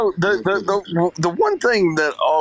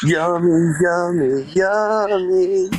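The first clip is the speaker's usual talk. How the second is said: imitating a full mouth; higher, mock mouthful; cheeks stuffed full; 7 semitones higher, slower than usual. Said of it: "he talks with his mouth full".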